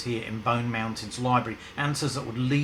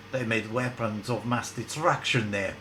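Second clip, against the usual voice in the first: bad Russian accent. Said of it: "in a bad Russian accent".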